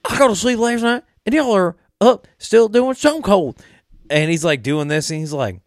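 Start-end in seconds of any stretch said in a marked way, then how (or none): 0.0-3.6 high-pitched, exasperated Southern gripe; hammed-up irritated Southerner; A J Styles, mad. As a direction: whine it high and loud in a Southern accent. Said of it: "when A J Styles gets mad".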